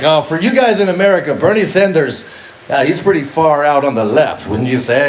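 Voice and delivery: put-on Icelandic bar buddy with a Russian-sounding accent; botched Icelandic accent. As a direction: imitate an Icelander badly, sliding into Russian. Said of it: "I don't know why he sounds Russian".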